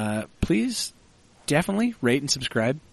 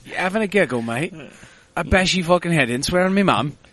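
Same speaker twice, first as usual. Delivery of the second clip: higher, louder Cockney hard-man voice; cockney accent; 7 semitones higher, 3 dB louder than usual. Pretend. A co-host mocks the accent with a loud Cockney threat. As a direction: threaten like a London thug, hammed up.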